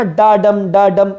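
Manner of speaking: unstressed "डा", stressed "डम", in repeating pairs; iambic stress. Shown as a demonstration. Teacher sounding out an iamb for students, iambic stress on each "डम". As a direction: lean on each "डम", keeping "डा" light. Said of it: "दूसरा syllable stressed रहता है".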